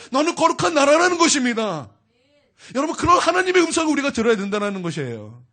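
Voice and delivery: full-force pulpit fervor; fervent preaching. Acted. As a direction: preach it out to the whole church.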